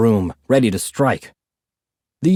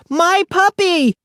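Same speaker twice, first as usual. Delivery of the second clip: put-on higher, slower drawn-out toddler wail; stretched toddler wail; slower than usual. A narrator's reading. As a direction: drag it out like a bigger tantrum. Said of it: "Aki screamed".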